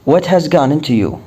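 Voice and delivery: slow, careful model question; slow English model line; slow teaching read. Shown as a demonstration. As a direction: spell it out slowly for learners.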